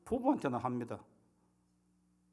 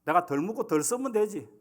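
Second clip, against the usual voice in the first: irritated Gyeongsang husband; 4 semitones higher, 4 dB louder than usual. Retold or imitated. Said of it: "그러고 하는 말이 이제".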